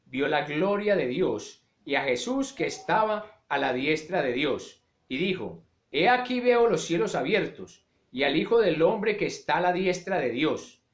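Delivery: measured, solemn Bible reading; scripture reading. Acted. Preacher reading Acts to the congregation, solemn. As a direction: read the passage with weight.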